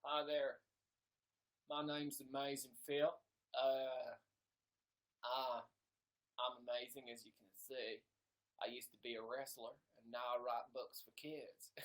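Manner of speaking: lightly put-on impression voice; fake Amazing Phil. Streamer posing as a rival to steal viewers, lightly voiced impression. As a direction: slip into a mock impression of a fellow YouTuber. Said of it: "Let me pretend I'm Phil".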